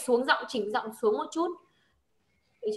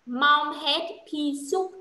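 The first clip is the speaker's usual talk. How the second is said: slow quote; much slower than usual. Shown as a demonstration. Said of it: "Câu đấy nghĩa là gì".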